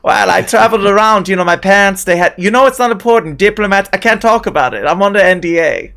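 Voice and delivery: put-on French accent sliding into German. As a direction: dodge questions in a muddled French-German accent. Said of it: "It's getting more German all the time".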